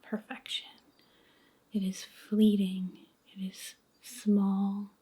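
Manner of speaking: slow, hushed meditation voice with long pauses; guided meditation. Acted. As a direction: guide them gently into letting go, near a whisper, unhurried.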